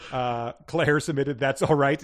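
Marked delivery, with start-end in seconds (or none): 1.4-2.0 exclaiming. Retold or imitated. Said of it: "exclaimed the enthusiast".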